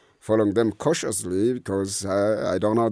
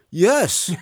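eager yes; 11 semitones higher, 4 dB louder than usual. Retold or imitated. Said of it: "And I said".

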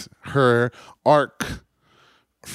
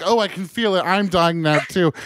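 mock dramatic Jean; 6 semitones higher than usual. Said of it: "She's like".

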